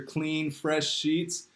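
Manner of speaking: slow, soft and dreamy; drawn out like sinking into bed; savoring. Real, not acted.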